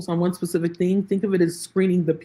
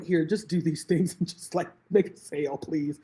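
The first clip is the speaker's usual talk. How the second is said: pleading; 3 semitones lower, 6 dB quieter than usual. Retold or imitated. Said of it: "I was just like".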